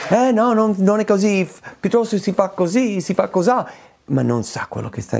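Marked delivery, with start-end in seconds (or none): 0.1-3.7 mock a smug person correcting others; mocking know-it-all. Preacher mimicking a smug know-it-all to his congregation, mocking. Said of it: "una persona che si mette su come se sapesse".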